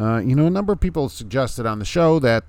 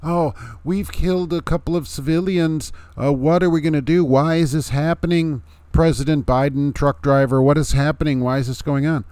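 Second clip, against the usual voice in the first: mocking hand-wringers; 5 semitones higher than usual. Vlogger mocking hand-wringing critics of the strike, whiny and high. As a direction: ham up the pearl-clutching panic. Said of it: "man bun-wearing, man purse-carrying people".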